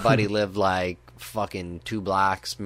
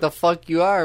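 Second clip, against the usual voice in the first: angry yell; 10 semitones higher, 7 dB louder than usual. Retold or imitated. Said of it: "he's like".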